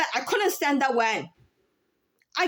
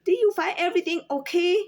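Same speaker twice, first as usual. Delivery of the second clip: put-on a lightly raised, gentle greeting for old customers; sweet clerk voice for elders; 5 semitones higher than usual. Cashier showing how she greets elderly customers, lightly sweet. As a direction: lift it politely for an older shopper. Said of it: "treat to the American old folks".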